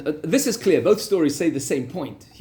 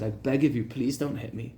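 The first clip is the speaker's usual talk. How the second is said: softer, mild retold pleading; begging; 4 semitones lower, 5 dB quieter than usual. Rabbi begging the wealthy man not to beat him, softly pleading. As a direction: quietly plead with him not to hit you. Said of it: "Rav Avish started to beg him".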